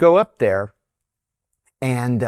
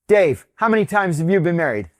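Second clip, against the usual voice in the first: higher, retold call across to a colleague; 5 semitones higher, 3 dB louder than usual. Boss polling colleagues about marriages, calling out. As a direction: punch the name, then ask briskly.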